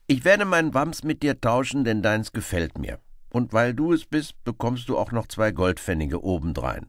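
high, loud insistent reply; determined Robin Hood. Acted. Robin insists to the beggar, high and determined. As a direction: insist stubbornly on trying.

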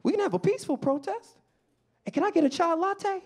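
high, gentle voice of caution; calm him down in a high, polite voice; high-pitched placating. Acted. Customer calming the fired-up barista, high and placating. Timidly calms the angry older man.

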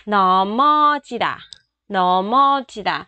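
넘어지다 said as 너머지다, M linked into the vowel; linked pronunciation. Shown as a demonstration. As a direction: glide the M into the next vowel. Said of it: "Luyến âm luôn nha các bạn".

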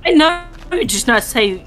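laughing, half-outraged; laughing disbelief. Real, not acted. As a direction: laugh through it.

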